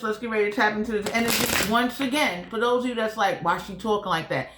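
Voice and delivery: talking around a whitening strip; slightly lisped, mouth full. Real, not acted. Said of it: "I have a whitening strip in the top and the bottom".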